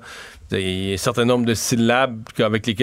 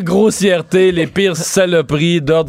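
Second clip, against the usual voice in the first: laughing; 4 semitones higher, much slower than usual. Real, not acted. Laughing about insults to machines.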